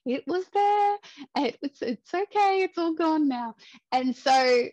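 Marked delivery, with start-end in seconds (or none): 0.1-3.5 very high, imitated soothing surgeon; hammed-up comforting in a sing-song high pitch; reassuring. Surgeon comforting a crying patient after surgery, imitated reassurance.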